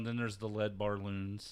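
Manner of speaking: "barloons" instead of balloons; slowed "lead barloons" as a slip; mispronunciation barloons. Retold or imitated. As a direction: say "barloons" with an r, bar-loons. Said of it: "I accidentally said barloons".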